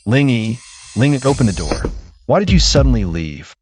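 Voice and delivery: calling through the door. Acted. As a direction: call out through a closed door. Knocking, calling through closed door.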